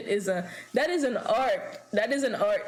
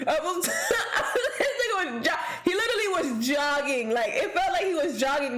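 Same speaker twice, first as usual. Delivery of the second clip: laughing; 5 semitones higher than usual. Real, not acted. Laughing while describing dance.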